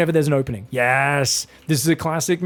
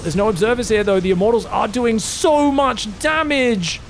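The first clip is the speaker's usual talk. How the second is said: normal talking voice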